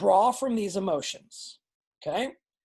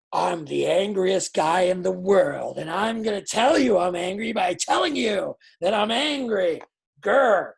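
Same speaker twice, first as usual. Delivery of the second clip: fake anger; 2 semitones lower, 4 dB louder than usual. Shown as a demonstration. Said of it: "That's not sincere".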